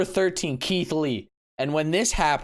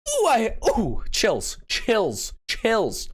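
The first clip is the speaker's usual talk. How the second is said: excited chills; 7 semitones higher, much slower than usual. Real, not acted. Reacting to the Claymore.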